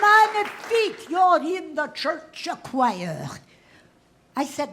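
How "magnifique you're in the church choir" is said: much higher delighted exclaim; delighted French choir director; delighted Frenchman. Retold or imitated. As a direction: cheer her in like an excited French maestro.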